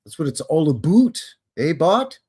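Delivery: put-on playful Canadian accent, "about" said like "aboot"; mock Canadian accent. Jokey Canadian repeat of the phrase.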